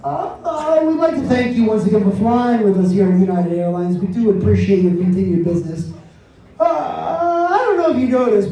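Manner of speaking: airline captain PA announcement; calm captain over the intercom; pilot cockpit headset. Acted. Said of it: "this is your captain speaking".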